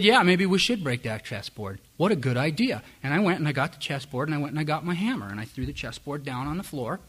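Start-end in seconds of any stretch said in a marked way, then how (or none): 0.0-2.8 sarcastic. Retold or imitated. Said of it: "And what I did is I said".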